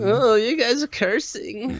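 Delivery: mock offended barista. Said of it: "They'd be like".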